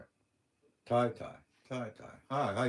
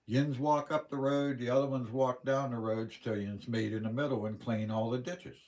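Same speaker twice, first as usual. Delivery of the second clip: retold boss orders; 3 semitones higher, 4 dB louder than usual. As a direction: call it out like a foreman to the crew. Boss giving crew orders.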